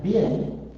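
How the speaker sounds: "bin" stretched out slowly; syllable demonstration. Shown as a demonstration. Teacher puts the vowel under the V, slowly sounding it out. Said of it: "When you put it under the V".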